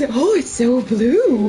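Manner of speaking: slow, drawn-out mock wonder; retelling the actor's line about hair; imitating the actor. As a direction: linger on it like the actor did. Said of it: "Yeah, he's".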